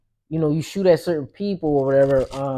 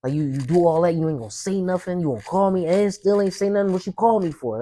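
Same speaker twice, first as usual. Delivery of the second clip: retold angry challenge; 3 semitones higher than usual. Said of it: "I'm just talking like that".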